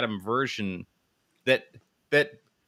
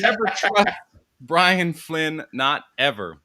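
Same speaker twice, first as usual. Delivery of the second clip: loud slogan; 3 semitones higher, 3 dB louder than usual. Shown as a demonstration. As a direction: bellow it like a motto. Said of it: "we should all collectively change whatever usernames".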